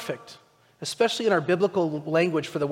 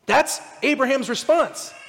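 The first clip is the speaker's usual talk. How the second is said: ordinary talk, nothing marked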